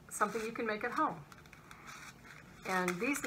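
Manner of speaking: behind clear plastic shield; through a face shield. Real, not acted. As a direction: face covered by visor. Seen 5: Clear plastic shield covers eyes, nose, mouth; removed after 18.9.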